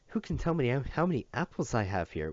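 high, singsong teacher question; warbling teacher. Acted. Teacher quizzing Matt in a high warble. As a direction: warble it like a cheery nursery teacher. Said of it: "warbled the teacher".

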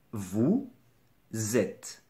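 "Vous", pause, "êtes" said as "zèt"; liaison. Shown as a demonstration. Teacher demonstrating liaison with être, split-syllable demonstration. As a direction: carry a z onto "êtes". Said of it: "la liaison".

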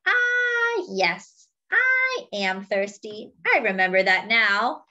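forgetful elephant. Acted. Fred the elephant agreeing with Monkey, lightly voiced and muddled.

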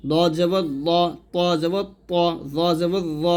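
দ, ত, জ said thick and full; heavy letters. Shown as a demonstration. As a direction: keep দ, ত, জ heavy, with a rounded vowel. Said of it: "সব সময় মোটা করে উচ্চারণ".

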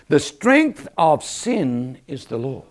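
very slow, weighty repeat of the verse; slow emphatic verse. Acted. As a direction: drive the verse home word by word. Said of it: "repeating the verse slowly".

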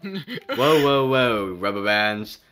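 lightly voiced, a playful scolding imitation; mock Nat Rozelle. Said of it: "gonna pop in and be like".

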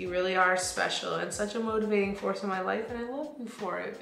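card read aloud. Real, not acted. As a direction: read it out quietly and evenly. Reads birthday card aloud.

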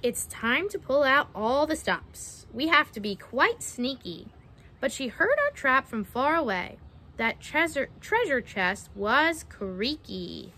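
measured picture-book storytelling; reading to children. Acted. Narrator reading a mermaid-trapping rhyme to children, storytelling. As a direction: read it out with a lilting rhyme.

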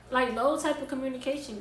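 fed-up rising outburst; exasperated. Retold or imitated. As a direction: vent the lack of respect. Venting at girl.

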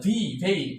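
"ভি, ভেইন" with breath on the v; airy V. Shown as a demonstration. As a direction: model "ভি, ভেইন" with air through a clear v. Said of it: "বাতাস থাকতে হবে".

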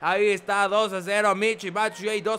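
excited goal call. Acted. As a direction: punch out the score with commentator joy. Second goal called live.

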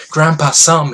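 high, loud call to grandpa; excited child's shout; child's cry. Acted. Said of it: "he cried".

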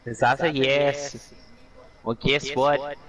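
lightly put-on Irish accent; a passable stab at an Irish brogue. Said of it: "I think my Irish accent is horrible".

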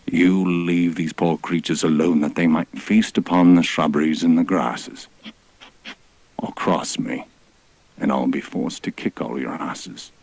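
a hint of a grand divine rebuke; mock-solemn god scolding the beasts; heavenly voice. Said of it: "his heavenly voice".

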